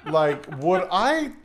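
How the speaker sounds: slow, drawn-out mock appeal; pointed tone. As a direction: imitate a friend asking to be trusted. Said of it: "you give me that, like, tone of voice".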